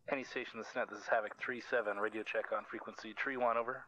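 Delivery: loud radio call over static; crackly military radio. Real, not acted. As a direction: bark it into the handset.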